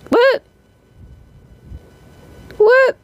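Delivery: high, loud baffled what; incredulous what. Real, not acted. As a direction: react in disbelief. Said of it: "some of these are weird".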